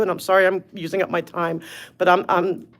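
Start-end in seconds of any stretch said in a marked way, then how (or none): 2.0-2.7 choked up. Real, not acted. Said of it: "you have me choking up".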